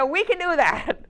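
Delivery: loud, high, slowed-down enthusiastic yes; eager agreement. Retold or imitated. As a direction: call it out emphatically, retelling your own yes.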